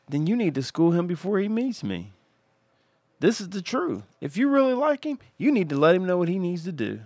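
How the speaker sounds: retold fatherly lecture. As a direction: lay down the law to his daughter, fired up.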